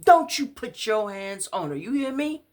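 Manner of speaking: high, loud protective scream. Acted. Man in the police car screaming to protect her. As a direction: yell it from the back of the car. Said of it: "started screaming himself".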